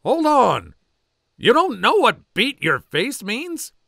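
high, loud whoa, stopping him; loud incredulous drill sergeant; drill sergeant holding back laughter. Acted. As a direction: stop the private, suppressing a laugh. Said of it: "trying to hold back laughter".

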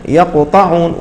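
يقطعون said smoothly without a stop; correct reading. Shown as a demonstration. Teacher repeats the model word for students, smooth. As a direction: flow through يقطعون. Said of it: "هكذا".

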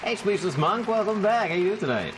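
high, bouncy cartoon voice; cartoon character greeting. Streamer welcoming a returning viewer, cartoonish.

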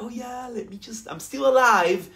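high playful inner monster; mock monster voice. Speaker voicing the fear inside you, high and playful. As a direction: voice the fear clinging on. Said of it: "kinda like".

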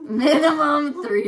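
slow, high, laughing through it. Real, not acted. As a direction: giggle the words out. Repeats joke while laughing.

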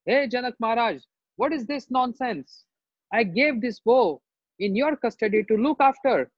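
acted wrathful threats and demands; angry mood. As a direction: scold as an outraged warrior sage. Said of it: "So much angry mood".

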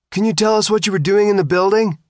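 high, loud reporter call; shouted question. A narrator's reading. Reporter to Sophia, shouting over flashes. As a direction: yell it over the crowd.

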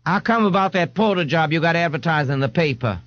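easy, unbothered ask; laid-back man. Acted. Jones voiced.

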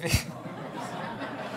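real, breathy chuckle at a heckle; amused laugh. Real, not acted. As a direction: laugh helplessly at the joke. Amused by listener's heckle about book.

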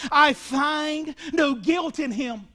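slow, deliberate declaration; Pilate insisting. Retold or imitated. Pilate declares Jesus innocent, slow and deliberate. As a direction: weigh every word slowly. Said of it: "He says again".

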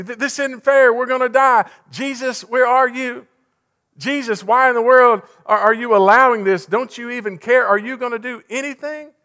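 high, loud, frantic pleading; freaked-out panic. Acted. Disciples to Jesus in the storm, panicked. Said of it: "I mean, they freaked out".

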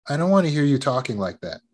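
measured, gentle reprimand; calm stepfather. Retold or imitated. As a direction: correct the child without raising your voice. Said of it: "he didn't raise his voice".

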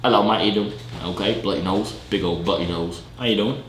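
low British greeting; put-on British accent. Greeting strangers after mixing up accents, low British accent. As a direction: greet them as a cheeky Brit. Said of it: "I got so many accents in me".

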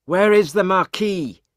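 acted angry crowd voice; demanding interrogation. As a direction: demand an answer from a prisoner. Angry crowd questions jailed servant.

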